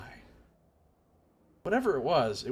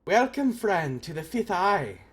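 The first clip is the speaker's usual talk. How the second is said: hailing warrior in a put-on accent; a slightly lifted, accented welcome; raised-voice greeting; 2 semitones higher, slower than usual. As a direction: greet a stranger as a game warrior. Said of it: "she raises her voice in greeting".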